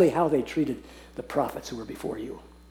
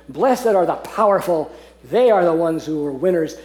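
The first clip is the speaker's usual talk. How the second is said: mock worldly blessings; 4 dB louder than usual. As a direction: parody what the world calls blessed. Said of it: "Is that how he begins?".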